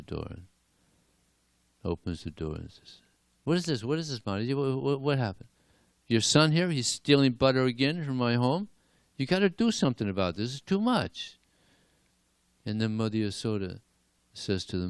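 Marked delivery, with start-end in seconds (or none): 3.4-11.4 indignant complaint. Acted. Neighbor complains to Yasoda at door.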